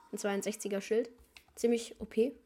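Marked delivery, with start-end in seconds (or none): 1.6-2.4 whispering. Real, not acted. Whispered aside while gaming.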